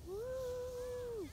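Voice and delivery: high joyful whoop; excited whoop. Real, not acted. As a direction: let out a happy yelp. Cri de joie dehors. (cri de joie)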